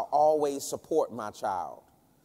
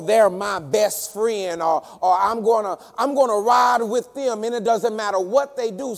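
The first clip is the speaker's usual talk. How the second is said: forceful, higher-pitched pulpit delivery; preaching; 7 semitones higher, 6 dB louder than usual. Real, not acted. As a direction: press each point home, building louder into the mock quote.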